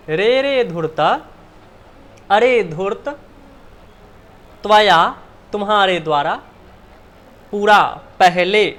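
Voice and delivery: half-hearted loud mock scolding, glossed as it goes. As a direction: scold the jackal while explaining. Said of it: "डांटती हुई".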